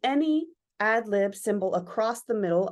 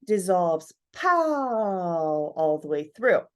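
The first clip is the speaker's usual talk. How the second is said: dissolving slowly; 2 semitones lower, slower than usual. Shown as a demonstration. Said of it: "and then it".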